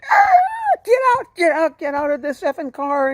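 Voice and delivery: high, loud screamed order to get out; furious screaming. Retold or imitated. Crazed driver throwing a hitchhiker out, furious screaming. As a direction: scream it in high-pitched rage.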